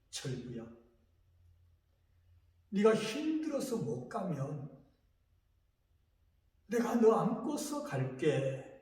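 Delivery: voice of God calling. Retold or imitated. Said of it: "이 음성이 들리는 거예요".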